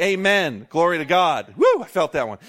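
loud, lifted shout of praise; excited praise. Real, not acted. Pastor rousing the congregation, loud joyful praise. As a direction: cry out glory with real joy.

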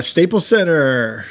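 slow, drawn-out arena name; savoring the name. Shown as a demonstration. Co-host enjoying saying Staples Center, savoring it slowly. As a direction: stretch the name out with relish.

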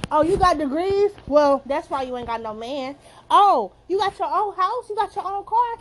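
mock put-down. Acting out critics telling women they won't get a man, mock put-down. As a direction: pick at their achievements in mockery.

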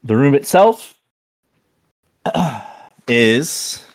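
high, loud epic narration; epic fantasy narrator. Acted. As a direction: boom it out like a storyteller. DM starts dramatic description.

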